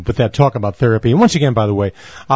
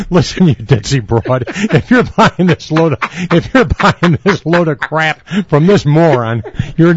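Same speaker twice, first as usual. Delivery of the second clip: mock insult; 3 semitones higher, slower than usual. Pretend insulting the therapist.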